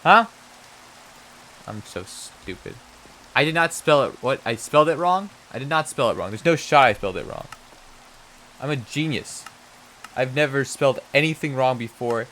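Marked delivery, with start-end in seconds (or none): 3.3-7.5 indignant denial. Real, not acted. Indignant denial at own typo.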